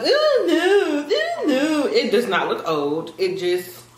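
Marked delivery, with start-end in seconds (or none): 0.0-1.9 mock disgust. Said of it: "when I pick out girly stuff".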